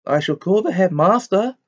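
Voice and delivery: high, loud, stern shout; shouted threat. A narrator's reading. Professor threatening the poltergeist, stern shout. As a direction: call out an outraged warning. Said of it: "shouted Professor McGonagall".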